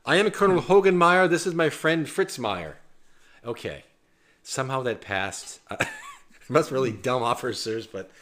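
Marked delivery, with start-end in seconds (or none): 0.0-2.8 a light put-on German accent, a bit higher and louder; mock German accent. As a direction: playfully fake a German accent like a TV prison guard. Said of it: "Speak with a German accent".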